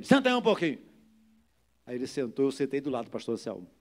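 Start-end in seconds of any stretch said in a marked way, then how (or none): 0.0-0.8 raised, high commanding yell; retold shout. Pastor repeating his order to sit, retold shout. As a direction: yell the order as you acted it. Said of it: "Gritei também".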